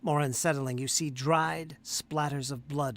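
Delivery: measured narration with slow, drawn-out key phrases; game master's scene setting. Acted. Game master describing a room to the players, scene-setting narration. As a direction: set an unsettling scene, pausing between details.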